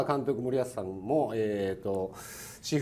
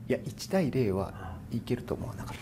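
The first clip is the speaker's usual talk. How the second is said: laughing; 7 dB louder than usual. Real, not acted. Candid admission of prediction.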